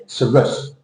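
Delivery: saurus as a weak suh-RUS, short vowels; reduced word ending. Shown as a demonstration. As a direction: shrink saurus to a light -serus. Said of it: "You're still saying saurus at the end".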